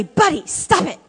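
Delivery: sharp yell of "Buddy, stop it" at the dog. Retold or imitated. Speaker scolding the dog Buddy, mock yell.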